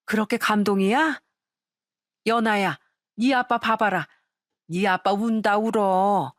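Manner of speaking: lightly voiced wife, playfully teasing with a smile. Wife teasing her husband for crying at his haircut, playful. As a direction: poke fun at him gently, amused. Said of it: "아내가 미소 지으며 놀리기도".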